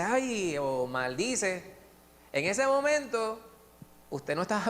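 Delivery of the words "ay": mock ouch. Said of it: "le mete un empujón a la mesa y dice".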